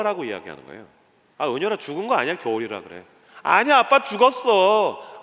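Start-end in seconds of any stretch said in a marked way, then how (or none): 3.4-5.2 put-on higher, louder little-kid protest; imitated insistent child. Daughter insists to dad the tree died, imitated child. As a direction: stretch the last word like a stubborn child.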